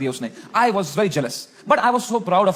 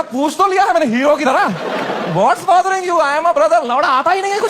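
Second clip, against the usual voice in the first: high, loud panicky rant; loud, high flustered outburst; 6 semitones higher, 6 dB louder than usual. Real, not acted. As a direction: blurt it out in comic panic. Panicked, not knowing what to say.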